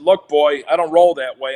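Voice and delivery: a threat to throw down, voice pushed out; tough warning. Retold or imitated. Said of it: "I said".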